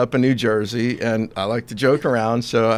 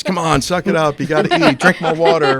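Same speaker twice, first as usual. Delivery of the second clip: higher, louder retold coaching; Rocky-style pep talk; 5 semitones higher, 4 dB louder than usual. Husband retelling speeches to dehydrated wife, mock pep talk. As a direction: imitate a pushy corner-man pep talk. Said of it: "giving her Rocky speeches".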